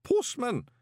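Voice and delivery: high, ceremonial summons; booming demand. A narrator's reading. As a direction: call the postman to account grandly. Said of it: "the booming voice demanded again".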